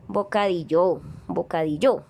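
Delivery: "bocadillo" with the final LLO stressed, bocadi-LLÓ; misplaced stress on last syllable. Shown as a demonstration. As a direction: push the accent onto the end of "bocadillo". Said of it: "No, ¿cierto?".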